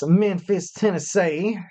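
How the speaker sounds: light mock Southern Tennessee accent on the city name. Shown as a demonstration. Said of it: "that's my best, um, you know, accent".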